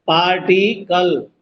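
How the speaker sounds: पार्टिकल said slowly, syllables apart; slow पार्टिकल down for the class; slow teaching. Shown as a demonstration. (पार्टिकल धीरे से)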